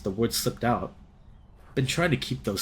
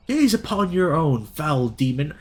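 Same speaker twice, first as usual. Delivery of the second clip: heroic role; 4 semitones higher, 5 dB louder, slower than usual. Acted. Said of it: "taking on the heroic role".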